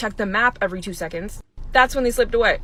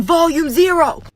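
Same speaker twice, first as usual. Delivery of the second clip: mild mock command; 5 semitones higher, 6 dB louder, slower than usual. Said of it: "in the kids' face telling them".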